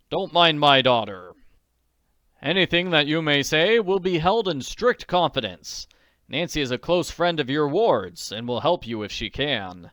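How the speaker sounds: put-on calm older gentleman reassuring; reassuring lawyer.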